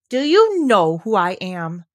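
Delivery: haughty, slow question, stress on you; a boy prince challenging a gardener; slow haughty demand. Acted. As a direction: look down your nose and ask slowly. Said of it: "demanded the Rajah".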